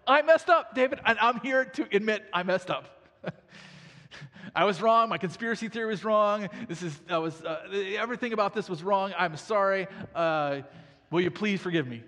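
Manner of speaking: high, loud mock pleading confession; Shimei pleading. Shimei begging David to forgive him, high and loud. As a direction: ham up a guilty man begging the king. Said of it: "He's like".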